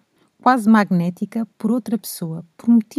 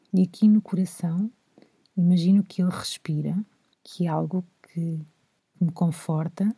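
guided reflection; 2 semitones lower, 4 dB quieter than usual. Shown as a demonstration. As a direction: guide them gently inward, leaving pauses. Walks through an inner heart exercise.

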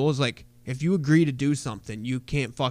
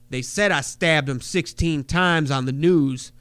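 louder, slow deliberate insistence; proud psycho correction; 2 semitones higher, 4 dB louder, slower than usual. Retold or imitated. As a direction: savor each number like a madman. New Jack correcting the news proudly.

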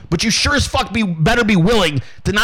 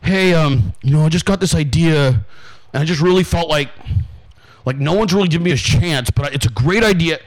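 lower, timid imitation of a begging pitch; lower, mock-humble pleading voice; meek supplicant; 4 semitones lower than usual. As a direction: shuffle in hat in hand, apologetic. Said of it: "anytime I show up hat in hand".

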